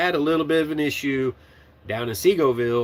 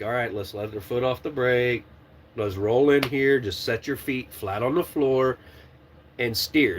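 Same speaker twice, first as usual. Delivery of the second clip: calm instructing; 2 semitones lower than usual. Retold or imitated. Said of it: "I'm usually very calm".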